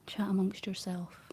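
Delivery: slow, drawn-out classroom instruction; lightly schoolteacherly, spacing out the words; primary school teacher. Real, not acted. Streamer to chat while concentrating, lightly like a primary teacher. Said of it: "sound like some sort of primary school teacher".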